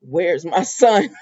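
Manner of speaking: drawn-out, voiced "Where's my son?"; slow menacing Sheila. Sheila demanding her son at the door, slow and ominous. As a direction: draw each word out slow and ominous. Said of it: "Sheila said".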